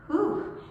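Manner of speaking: short, high-pitched whew; whew of effort. Real, not acted. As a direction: let out a quick "whew" at the challenge. Reacts to challenging pose.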